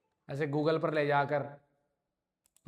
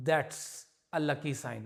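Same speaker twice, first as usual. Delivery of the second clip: slow reading; much slower than usual. Shown as a demonstration. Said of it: "मतलब ये अच्छी बात है".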